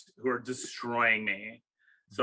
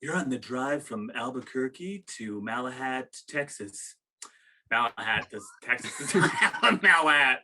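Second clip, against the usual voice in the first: late-night jazz radio voice. Shown as a demonstration. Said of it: "I like to do an easy jazz listening".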